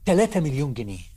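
mildly angry official passing sentence; indignant jump on the first word, then firm; retold anger. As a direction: act out an offended official's threat. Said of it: "الراجل غضب".

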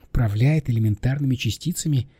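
mildly disbelieving question; understated incredulity; incredulous echo. Acted. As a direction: repeat it back in disbelief. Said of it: "как на идиота".

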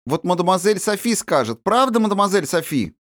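put-on high, lively girl's voice; princess voice. A narrator's reading. Princess appealing to her governess, high and lively. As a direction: coax the governess into agreeing.

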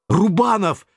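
yelling a correction down the phone; shouted. A narrator's reading. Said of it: "выкрикнул я в трубку".

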